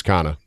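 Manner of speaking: "Kana" ending in "ah", no R; back-home pronunciation. Shown as a demonstration. Guest saying his name as back home, R dropped. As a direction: drop the R from Connor, "Kana". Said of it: "back home".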